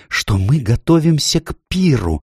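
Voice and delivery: high, eager listing; excited faun. A narrator's reading. Faun planning a pretend feast, excited. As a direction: rattle off the feast plans in a high voice. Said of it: "взволнованно проговорил Фавн".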